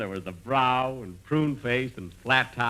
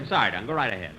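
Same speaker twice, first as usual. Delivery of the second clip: sheepish apology; 5 semitones lower, faster than usual. Acted. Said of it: "got a little excited".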